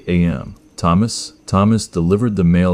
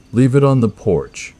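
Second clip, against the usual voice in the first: loud, raised shout; 6 semitones higher, 3 dB louder than usual. A narrator's reading. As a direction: yell it through the door. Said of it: "I shouted".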